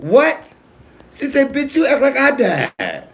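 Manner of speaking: high stern mama, half laughing; mama's voice. Retold or imitated. Comedian imitating his mother scolding him, high and laughing. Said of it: "my mama".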